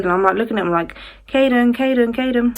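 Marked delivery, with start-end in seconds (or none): 1.3-2.6 higher repeated name-call. Retold or imitated. Mum looking at her son, higher insistent call. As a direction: call the name over for attention.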